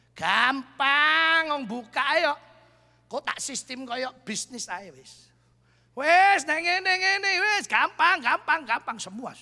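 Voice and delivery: a hint of a cocky young businessman in Javanese; mild mock swagger; boastful. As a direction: brush it off as easy, lightly mocking his old self.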